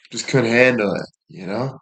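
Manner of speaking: ordinary talk, nothing marked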